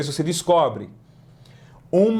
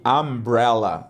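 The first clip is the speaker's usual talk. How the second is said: slow umbrella; 3 semitones lower, slower than usual. Shown as a demonstration. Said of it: "slow model take".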